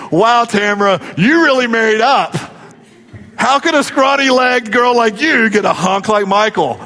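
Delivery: lightly voiced girlfriend, laughing; a hint of a girl teasing her friend; mock girlfriend ribbing. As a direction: tease her friend about her husband. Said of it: "you never hear girls say".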